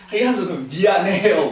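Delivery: loud, drawn-out cheerful sorry; smiling apology. Retold or imitated. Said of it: "웃으면서 서로 얘기를 했다고".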